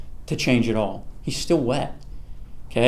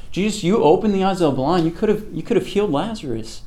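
higher-pitched mock complaint; retold grumbling; 5 semitones higher than usual. Onlookers complaining about Jesus behind his back, lightly acted grumble. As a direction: imitate people griping behind someone's back. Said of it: "they're saying it behind his back".

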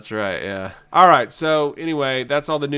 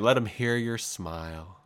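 flat, mocking repeat; sarcastic; 4 dB quieter than usual. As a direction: sneer it back dryly. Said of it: "it's lame".

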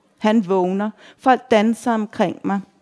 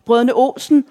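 higher, mildly raised call; excited shout; 4 semitones higher, 4 dB louder than usual. A narrator's reading. Excited reveller recognising a song in the bar, shouting. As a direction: call it out as if thrilled. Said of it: "råber jeg".

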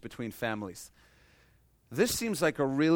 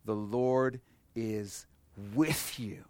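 slow emphasis; 3 semitones lower, much slower than usual. Shown as a demonstration.

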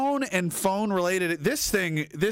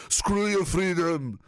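Arnold Schwarzenegger; slower than usual. Retold or imitated. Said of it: "Arnold Schwarzenegger said that".

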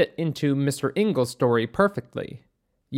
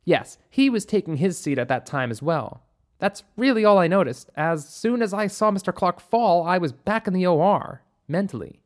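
higher, earnest recollection; a hint of a higher-voiced witness; lightly voiced doctor; 4 semitones higher than usual. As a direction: recall it as the doctor in a raised pitch. Narrator voices doctor recounting.

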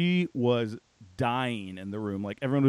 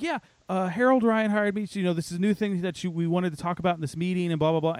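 lightly imitated bubbly woman, pitched up; bubbly newcomer; 4 semitones higher, faster than usual. Newcomer introduces herself to a confused meeting, mock bubbly. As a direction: chirp along like an over-friendly new hire. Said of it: "way too bubbly".

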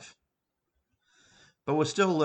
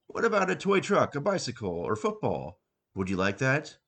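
coaxing Santa; 3 semitones higher than usual. Acted.

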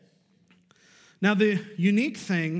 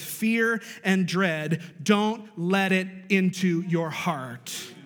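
slower, weighty rereading; 3 dB louder than usual. Shown as a demonstration. Preacher rereading the verse to the congregation, slower. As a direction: read it again, slower and deliberate. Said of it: "Let me read that for you one more time".

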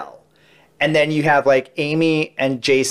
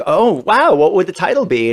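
higher-pitched mock amazement; playing along; 6 semitones higher than usual. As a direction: act wowed, feeding him the question. Acts out playing along with setup.

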